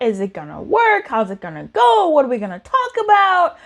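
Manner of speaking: mock-worried questions jumping upward at the ends; hammed-up mild panic; anxious overthinking. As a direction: play a spiral of worried questions. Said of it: "you're conflicted, you're thinking about".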